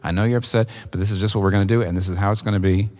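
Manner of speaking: lightly voiced steady, gentle parent; mild, even firmness toward an angry child; calm and gentle. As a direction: calmly insist on the truth. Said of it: "but you just say very calmly".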